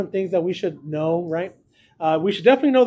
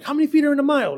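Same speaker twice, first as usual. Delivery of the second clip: put-on high, screaming yell; 8 semitones higher than usual. Retelling a movie scene where a coach quizzes a player: imitating Denzel Washington screaming. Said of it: "And he screams like".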